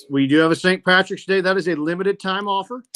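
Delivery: upbeat sales pitch read; infomercial voice. Real, not acted. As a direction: sell it like a TV ad. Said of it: "infomercial voice there".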